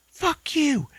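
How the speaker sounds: hammed-up high yell; mock furious Ashley. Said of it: "Ashley's like".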